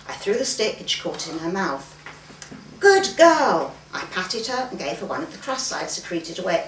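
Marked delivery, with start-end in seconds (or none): 2.8-3.7 higher, louder praise to a dog; bright "Good girl!" called out loud; calling praise. Acted. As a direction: cheer the dog on.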